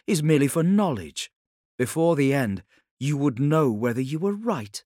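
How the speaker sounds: lightly voiced woman, earnest; perceptive Ilya. Ilya tells the Khan what she has understood, earnest and insistent.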